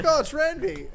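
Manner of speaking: high-pitched mimicked reaction; imitated reaction. Retelling a friend's clip reaction, high mimicry. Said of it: "you're like".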